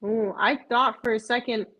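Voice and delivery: ordinary talk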